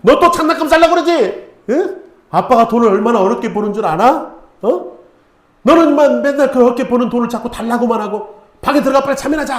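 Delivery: 높고 크게 아이를 꾸짖는 아빠 흉내; 화가 나 아이에게 소리치는 아빠를 재연. Retold or imitated. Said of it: "아빠가 화가 확 나는 거야". (아들에게 돈 달라는 말에 화난 아빠의 호통)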